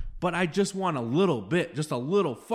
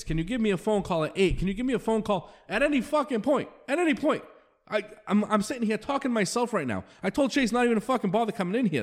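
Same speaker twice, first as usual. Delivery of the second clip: real exasperated rant, pitched up; pissed off; 5 semitones higher than usual. Real, not acted. Host venting at group members who won't call, pissed off. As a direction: plead in angry disbelief, voice riding higher. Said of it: "That's how fucking pissed off I am".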